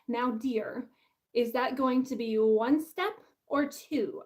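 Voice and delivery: lightly voiced stately impersonation, drawn out at the end; a hint of a grand British leader, slowing down; Margaret Thatcher. Author badly imitating a politician for laughs, lightly put-on role voice. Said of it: "in my best Margaret Thatcher voice".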